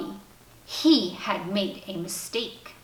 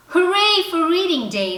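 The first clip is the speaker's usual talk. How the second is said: cheering; 9 semitones higher, 7 dB louder than usual. Acted. Dad cheers after the reading.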